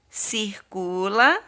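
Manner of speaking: Circula stretched slowly; teacher slowly saying circle it; slow instruction. Shown as a demonstration. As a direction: draw out Circula for kids. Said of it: "Qual dessas três palavrinhas".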